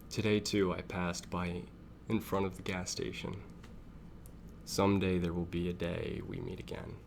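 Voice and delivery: measured reading with pauses between phrases; story narration. Acted. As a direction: read the text aloud like a narrator. Reads a story text aloud.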